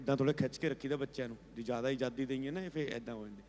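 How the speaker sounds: confiding in my ear. Retold or imitated. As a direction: murmur it privately into the ear. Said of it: "मेरे कान में पता क्या कहता है". (कान में धीरे से तेज़ी से कही बात)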